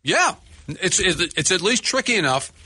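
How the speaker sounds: talking with food in mouth; mouth full. Real, not acted. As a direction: speak through a mouthful. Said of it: "I still have food in my mouth".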